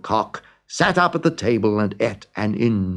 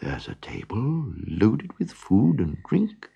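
whispering donkey; 5 dB quieter than usual. A narrator's reading. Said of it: "whispered the donkey".

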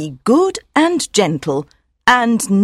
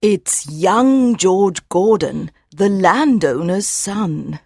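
mother mare, sadly; 8 semitones higher than usual. Acted. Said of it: "says Mother sadly".

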